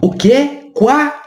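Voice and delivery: quá said high and clear as "kwa". Shown as a demonstration. Teacher stressing the sound of quá for students. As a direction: pitch up and lay out Quá as kwa. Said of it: "Tá vendo como eu tô pronunciando?".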